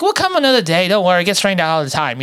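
put-on light Boston dad accent; a hint of a Boston accent, reassuring. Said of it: "trying to do my Boston accent".

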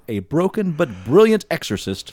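dramatic movie trailer voice. Acted. Dramatic reading of series description.

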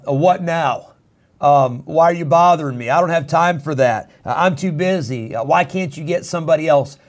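mock annoyed, put-upon whine; lightly voiced irritated excuse; grudging reluctance. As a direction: sound like you're being bothered. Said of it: "that's our attitude".

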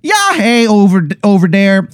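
high, hammed-up bad Wisconsin accent. Wizard chats to the player in a bad Wisconsin accent. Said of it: "He goes".

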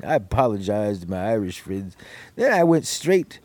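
slurred tipsy showman, slowing down; getting drunker. Acted. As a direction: play it loose and tipsy, drink in hand. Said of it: "I'm getting drunk, boys".

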